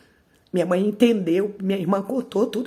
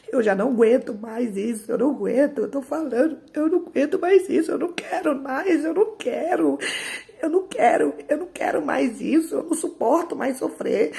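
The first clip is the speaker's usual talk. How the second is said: high, distressed retold begging; child's desperate protest, relived; desperate plea; 6 semitones higher than usual. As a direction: plead higher and higher, at the end of endurance. Child pleading with abusive father, retold.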